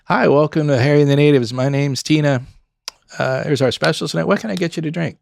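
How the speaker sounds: lightly voiced upbeat server greeting; friendly server spiel. Server Tina welcomes diners to Harry and the Natives, upbeat. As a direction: sell the welcome with a smile.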